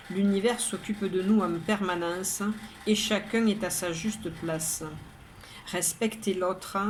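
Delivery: measured poem reading, pauses between lines; poem recitation. Acted. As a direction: recite each verse evenly, pausing after the rhyme. Reads the poem a second time. (lecture de poème, posée, vers par vers)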